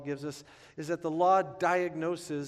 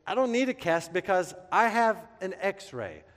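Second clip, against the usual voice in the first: higher, louder show-off voice; mock proud boasting; 5 semitones higher, 6 dB louder than usual. Young man showing nurse his X-ray, proudly louder. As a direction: brag like a kid showing an X-ray.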